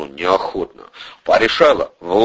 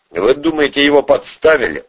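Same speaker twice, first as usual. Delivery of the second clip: higher-pitched, musing question; drawled question; 6 semitones higher than usual. A narrator's reading. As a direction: stretch it out, wondering. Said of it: "протянул Украинский".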